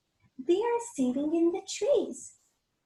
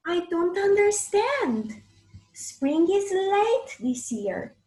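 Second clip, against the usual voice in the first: puzzled giant; 6 semitones higher, 5 dB louder than usual. Acted. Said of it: "says the giant".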